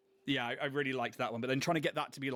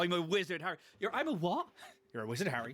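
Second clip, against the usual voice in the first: Harry Potter quote; 5 semitones higher than usual. Acted. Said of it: "we said Harry Potter".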